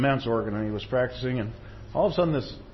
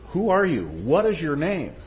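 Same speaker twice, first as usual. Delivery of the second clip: high, loud call after him, slowing on the name question; retold scream; 5 semitones higher, 5 dB louder than usual. Organist calling after the departing bum, a loud mock shout. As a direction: call out across the cathedral, demanding. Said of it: "the guy screams to him".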